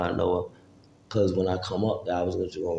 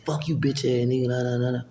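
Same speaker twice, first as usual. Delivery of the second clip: higher-pitched imitation of an arguer; pitched-up retold taunting; mock defiant insult; 5 semitones higher than usual. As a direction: mimic him talking back. Acted insult in retold quarrel.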